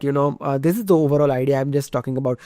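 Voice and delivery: ordinary talk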